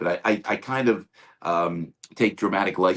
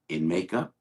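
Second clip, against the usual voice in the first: doubtful rising In makeup; pause, then ask it unsure; nervous In makeup with a rise; hesitant question; 3 semitones lower than usual. Retold or imitated. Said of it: "Like that".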